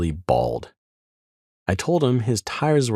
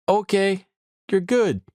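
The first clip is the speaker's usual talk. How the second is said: much higher, offhand guard voice; imitated guard waving through; 12 semitones higher than usual. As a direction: wave him on like a relaxed guard, pitched way up. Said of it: "he's like".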